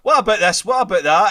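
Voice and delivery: mock nagging wife; pestering. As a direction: pester with question after question. Wife pestering him about the film.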